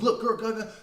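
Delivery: a touch of a mother at breaking point; hint of a desperate mum snapping at her kid; frazzled mother. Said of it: "on the verge of a mental breakdown".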